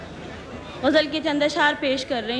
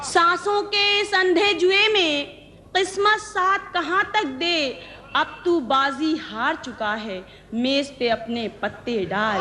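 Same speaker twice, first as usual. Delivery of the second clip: ghazal recitation; 3 semitones higher than usual. Acted. Poet presenting her ghazal to the gathering, measured recitation. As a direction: recite each line deliberately, pausing between phrases.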